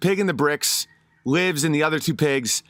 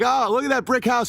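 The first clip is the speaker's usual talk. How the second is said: higher, sweetly fake admiring; sly pig; 7 semitones higher than usual. Scheming pig to his buddy, higher mock-sweet praise. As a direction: lay on fake friendliness, pitched up. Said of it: "he's like".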